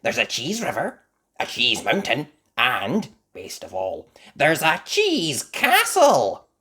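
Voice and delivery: loud, bright listing building to a slow finish; excited Mandy. Acted. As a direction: show off each wonder to your friends. Mandy lists Cheese World wonders.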